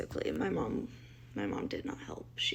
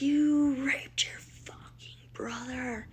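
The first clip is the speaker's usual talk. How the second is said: livid accusation; 5 semitones higher, slower than usual. Retold or imitated. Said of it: "I am just livid".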